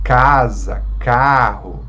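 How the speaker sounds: casa, carro with loud first syllables; penultimate stress. Shown as a demonstration. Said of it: "a penúltima sílaba forte". (casa, carro com a penúltima sílaba forte)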